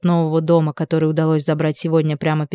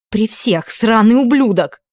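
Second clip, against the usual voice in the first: higher, slowed, spitting the insult; furious outburst; 4 semitones higher, slower than usual. A narrator's reading. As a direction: drag the insult out with contempt. Furious woman storming off.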